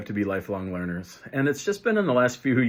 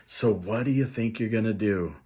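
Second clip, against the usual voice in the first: gentle question; 3 dB quieter than usual. Shown as a demonstration. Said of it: "we lovingly hand the problem back".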